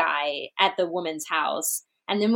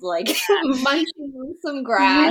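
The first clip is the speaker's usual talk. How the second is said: bleating sheep voice; 4 semitones higher than usual. Pretend. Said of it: "I just did a sheep impression".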